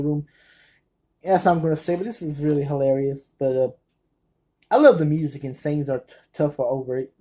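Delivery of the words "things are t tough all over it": tumbling quickly through "tough all over"; too fast. Real, not acted. Fan naming a film too fast, "tough all over" run together. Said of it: "I say it too fast".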